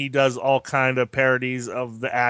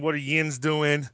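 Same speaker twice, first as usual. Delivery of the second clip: slow Pittsburghese yins, a light demo; Pittsburgh accent; slower than usual. Shown as a demonstration. Explaining local slang to listeners in Pittsburgh accent. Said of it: "because that's the Pittsburgh accent".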